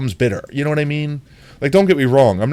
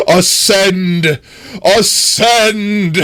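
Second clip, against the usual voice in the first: high laughing cry of triumph; gleeful shout; 11 semitones higher, 7 dB louder, much slower than usual. Real, not acted. Sheep launched into sky.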